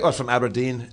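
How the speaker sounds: imitated Scottish accent. Friend fooling girls at the bar about his hometown, Scottish accent. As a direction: answer in a put-on Scottish accent. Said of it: "he was doing a Scottish accent".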